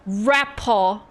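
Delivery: "Rapaw" with a full rap in front; supposed British pronunciation. Shown as a demonstration. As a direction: say "Rapaw", ending open without r. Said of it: "in British it's repaw".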